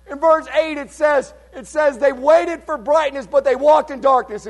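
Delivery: high, forceful sermon delivery; fervent preaching. Real, not acted. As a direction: preach it with excited wonder at the turnaround. Preaches at raised pitch.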